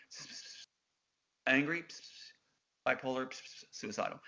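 hissed, half-whispered prompting in the background; a man whispering the words for her to repeat; retold whispering. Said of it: "a guy whispering in the background".

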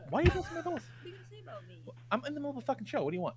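high mock annoyed voice; squeaky put-on complaint; pinched voice. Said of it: "That's my notes".

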